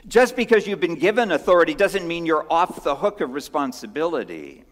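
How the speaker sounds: a hint of Jesus pressing Pilate; confronting Jesus.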